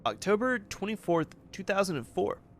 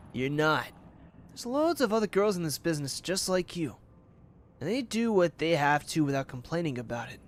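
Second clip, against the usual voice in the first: lightly voiced harsh manager. Manager berates Ruby.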